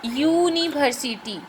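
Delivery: यूनिवर्सिटी slowly, with a long "yoo" at the start; यूनिवर्सिटी drawn out syllable by syllable, opening on a y sound; slow pronunciation demo. Shown as a demonstration. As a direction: stretch the first syllable of यूनिवर्सिटी. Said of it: "थोड़ा ध्यान दीजिए इसका उच्चारण होगा".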